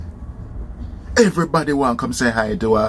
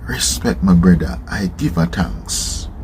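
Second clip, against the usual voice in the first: composed thanks; 5 semitones lower than usual. Retold or imitated. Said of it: "suck it up and say".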